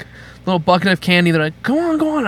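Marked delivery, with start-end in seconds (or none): 1.6-2.3 imitated goading parents. Parents urging scared child.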